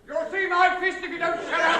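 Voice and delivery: loud threatening shout; angry threat. Acted. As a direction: bark the threat. Neighbour threatens.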